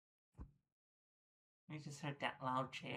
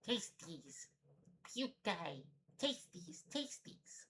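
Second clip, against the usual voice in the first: creepy whisper; 5 semitones higher, 6 dB quieter, slower than usual. Acted. Voicing creature, whispered high.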